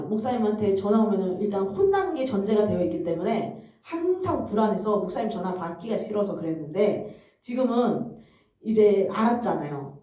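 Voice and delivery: normal talking voice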